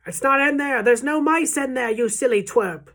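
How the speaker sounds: high, loud, exasperated; scornful shouting. A narrator's reading. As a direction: shout down a foolish workmate. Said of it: "now they were shouting".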